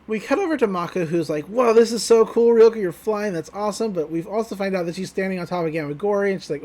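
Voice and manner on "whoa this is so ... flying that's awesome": higher, wowed fan voice; mock awestruck excitement; excited cheering. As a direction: gush in amazement as you cheer a friend on. Mako cheering Ryoko on, acted.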